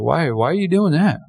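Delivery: mildly surprised questioning. Retold or imitated. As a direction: retell a puzzled, surprised reaction. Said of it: "Like, I was surprised".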